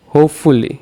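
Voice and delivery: হোপফুলি with weight on হোপ; stress on first syllable. Shown as a demonstration. Teacher demonstrating stressed syllables, হোপফুলি stressed on হোপ. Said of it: "হোপ হচ্ছে".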